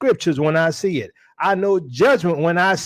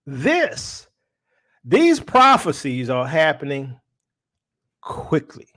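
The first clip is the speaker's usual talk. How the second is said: whispered quickly at the end; hushed warning; 4 semitones lower than usual. Real, not acted. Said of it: "hushed emphasis".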